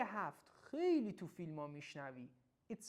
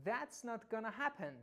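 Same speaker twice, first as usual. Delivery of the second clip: firm and sharp; 3 semitones higher, slower than usual. Shown as a demonstration. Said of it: "حالت قاطعانه و کمی هم تنده".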